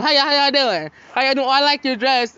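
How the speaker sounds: high, bright sugary politeness to strangers; fake-nice mom. Mom greeting an old couple in the elevator, sugary high voice. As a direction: put on a sweet voice for the old couple.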